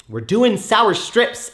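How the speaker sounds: slow, loud, high hype for the candy; hyped. Real, not acted. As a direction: sell it like a big announcement. Repeats it, second time hyped.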